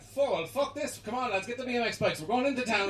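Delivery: rally the lads for mischief; rowdy rallying. Acted. Risen Jesus rallying his mates, rowdy and eager.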